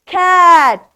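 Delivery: cat said out loud as one word after sounding it out; loud blended word. Shown as a demonstration. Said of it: "C A T".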